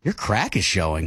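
low, playful come-on; flirty. Shown as a demonstration. Co-host takes a turn at the game, flirty. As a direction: drop the pitch and flirt lightly. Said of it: "Say it flirty".

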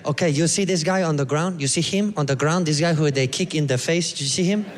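imitated Costa Rican accent; eager local storyteller with a Costa Rican accent; lightly accented Costa Rican guy. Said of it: "And he's like".

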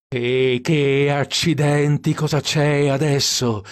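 angry outburst. A narrator's reading. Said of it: "si infuriò col cruscotto".

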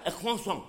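croissant said kwa-song through the nose; croissant as kwa-song, halfway up the nose; mock French croissant. Shown as a demonstration. Comedian mocks Irish French pretensions, croissant said kwa-song. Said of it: "halfway up your nose".

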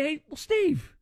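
lightly voiced interviewer, pressing; a hint of a probing newsman; mock interviewer. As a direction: imitate a blunt interviewer asking why. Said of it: "Chris Cuomo doesn't say".

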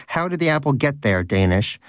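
fervent Donut. Acted. Donut lectures about the miracle.

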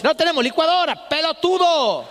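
lightly voiced mother snapping back; mom's retort. Mother answering her son's request, mildly annoyed. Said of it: "Y mi mamá dice".

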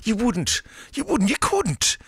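high, playful disbelief; mock disbelief. Host playfully doubting a listener's claim, high teasing voice. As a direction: tease them in a rising squeak.

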